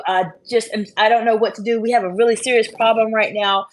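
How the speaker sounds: high, loud, frantic retold panic; panicked employee. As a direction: play the flustered staffer who thinks the sky is falling. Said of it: "they may be crying, they may be frustrated".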